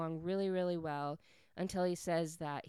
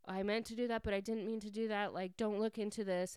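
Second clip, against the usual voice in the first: slightly raised, hurried backpedaling; a touch of awkward panic; mild retold panic; 3 semitones higher, faster than usual. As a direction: imitate a flustered man explaining himself. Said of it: "he looks very panicked because he's like".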